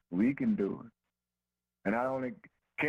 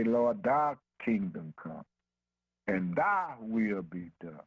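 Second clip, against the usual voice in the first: slow, lower-pitched prayer; 4 semitones lower, slower than usual. Acted. Preacher showing how to go before God, slow prayer. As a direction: pray it slowly and deliberately. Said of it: "go before him and say".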